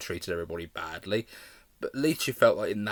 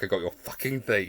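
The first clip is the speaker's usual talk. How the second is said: imitating snarl. Fan mimicking the villain line, snarled. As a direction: lightly voice her threat. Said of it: "the way she just says it".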